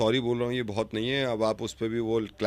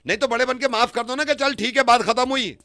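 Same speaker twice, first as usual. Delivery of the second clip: raised, pleading tone much higher; mock pleading; 11 semitones higher than usual. Prank caller pleads with stranger to forgive him, high whine.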